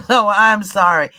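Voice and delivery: real laugh while apologizing; laughing apology. Real, not acted. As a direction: giggle out the sorry. Apologizing for ice noise.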